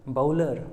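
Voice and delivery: बाउलर with an o-u glide; correct bowler. Shown as a demonstration. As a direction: model बाउलर. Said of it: "उसका सही उच्चारण क्या होगा".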